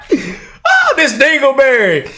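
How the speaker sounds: laughing jeer; laughing outburst. Real, not acted. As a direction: burst out laughing at him. Mocking the congressman's clip.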